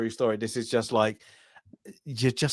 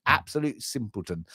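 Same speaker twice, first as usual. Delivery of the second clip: mock scornful insult. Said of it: "It's just like".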